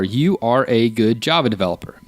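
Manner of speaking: "You are a good Java developer" word by word, evenly spelled out; exact words. Shown as a demonstration. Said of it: "the exact words are".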